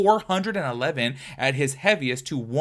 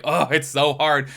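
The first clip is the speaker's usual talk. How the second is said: whiny; 6 dB louder, slower than usual. Retold or imitated. Quotes herself complaining about dieting.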